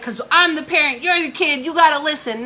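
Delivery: imitating a stern parent scolding a teen. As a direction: lay down the law like a fed-up parent. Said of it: "and be like".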